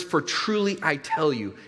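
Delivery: TRULY said slowly and deliberately; emphatic. Acted. Preacher quoting Jesus's solemn statement to the congregation, emphatic. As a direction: lean with measured weight on "truly". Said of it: "Jesus is saying this emphatically".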